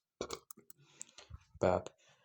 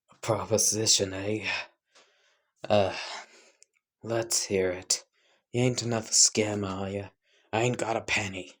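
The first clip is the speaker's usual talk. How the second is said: homeless man's put-on street accent. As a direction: lightly put on a rough-sleeper's accent, suspicious of the offer. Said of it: "I can't do the accent again".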